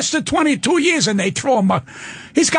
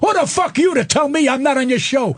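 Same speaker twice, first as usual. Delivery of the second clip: retold furious comeback. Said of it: "I said".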